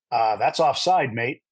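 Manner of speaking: slow, lightly imitated New Zealand accent; producer's voice in a mild New Zealand accent. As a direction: drop it in slowly with a hint of New Zealand. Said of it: "New Zealand accent, and he goes".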